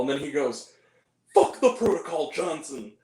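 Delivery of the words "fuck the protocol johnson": imitated action-movie order, fading at the end; mock heroic defiance. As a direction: defy the rules like a movie hero, in mockery. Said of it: "No, actually," he's like".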